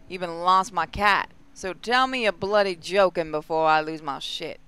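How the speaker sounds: put-on mild Australian accent, unimpressed. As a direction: grumble it like a tired Aussie soldier. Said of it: "Okay, so they're Australian".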